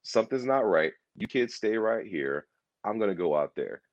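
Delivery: firm, measured retold command; imitating a resolute protector; decisive alarm. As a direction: take charge, as if instructing kids. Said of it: "It was a".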